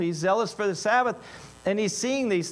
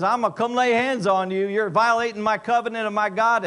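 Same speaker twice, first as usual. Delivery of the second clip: imagined fired-up rebuke, higher and louder; all fired up; 4 semitones higher, 5 dB louder than usual. Pretend. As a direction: act out a zealous friend confronting a wrongdoer. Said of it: "getting all fired up".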